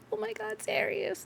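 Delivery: high, breathless gasp of joy; excited gasp. Acted. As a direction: gasp with delight at seeing Zarius. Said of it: "They're like".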